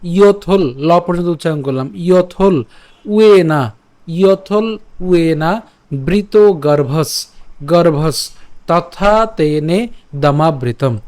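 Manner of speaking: slow, careful verse recital; slow recitation. Shown as a demonstration. Teacher repeating the verse from the start, slowly. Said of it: "আমি আবার প্রথম থেকে বলছি".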